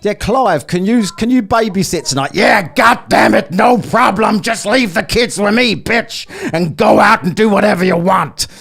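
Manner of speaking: high, loud hammed-up Aussie bloke; taunting a troll with an over-the-top Australian accent; mock Australian accent. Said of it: "talk Australian to a bloke from the U K".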